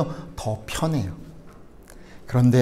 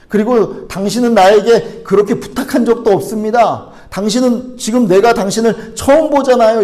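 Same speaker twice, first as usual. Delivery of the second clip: raised pitch, baffled coffee-shop worker objecting; incredulous retort to an unreasonable stranger; indignant protest; 6 semitones higher, 4 dB louder than usual. Acted. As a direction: argue back in exasperated disbelief. Acting out bewildered worker's retort.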